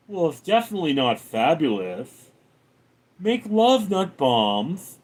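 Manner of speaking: lightly put-on character voice; Mister Fabulous. Streamer answering a chat question as Mister Fabulous, lightly voiced. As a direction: answer in character, swinging up on the punchline. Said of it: "what do Mister Fabulous think".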